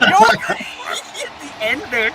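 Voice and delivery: high, slow, laughing through it; cracking up while describing. Real, not acted. Laughing at the celebrating lady.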